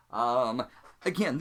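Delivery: ordinary talk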